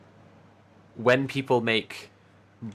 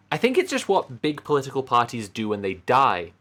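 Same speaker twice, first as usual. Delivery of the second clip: measured read-aloud of an essay; article reading. Acted. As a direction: read your own piece to the audience. Reads her article aloud.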